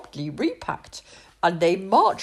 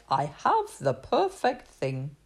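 chef voice; 5 semitones lower than usual. A narrator's reading. Chef in delight.

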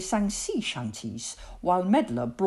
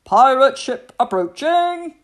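much higher and louder, urgent alarm; loud whisper; 8 semitones higher, 11 dB louder than usual. A narrator's reading. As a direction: warn urgently but try to keep it down. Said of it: "the lookout whispered loudly".

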